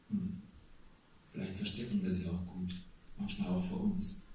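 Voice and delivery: hushed sincere church prayer; closing prayer. Acted.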